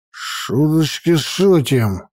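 put-on very slow squinting drunk threat; slurred drunk menace. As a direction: drawl it like a tipsy jailer. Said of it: "прищурился он и рыгнул".

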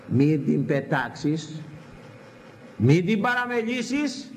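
slow, weighted words, rising at the end; slow earnest warning. Acted. Father warning his son, slow and weighty. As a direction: press each word slowly like a father warning.

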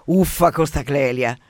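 slow, bored yawn of a complaint. Acted. Psychoanalyst fed up with the patient's Clelia, yawning complaint. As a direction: groan it through a yawn, fed up. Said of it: "sbadiglia lo psicanalista".

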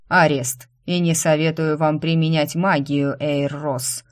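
громко, с чуть надтреснутым голосом; прокатить голос по залу, как шторм; надтреснутый, как штормовая волна. Acted. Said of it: "Чуть надтреснутый голос штормовой волной разнёсся по гостиной". (жандарм громом объявляет арест, с лёгкой хрипотцой)

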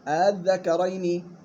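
الذكرين slowly, second hamza eased between hamza and alif; softened hamza. Shown as a demonstration. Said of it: "التسهيل وهو النطق بالهمزة الثانية".

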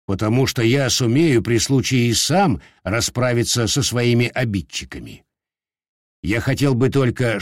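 лёгкий оттенок важного хозяина; спокойно и веско, без спешки; с достоинством. Acted. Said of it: "ответил с таким же достоинством". (с достоинством отвечает)

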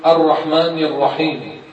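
wrongly trilled R in "الرحمن الرحيم"; repeated raa. Shown as a demonstration. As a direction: roll the R in "الرحمن الرحيم" several times over. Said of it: "لا تكرر الراء".

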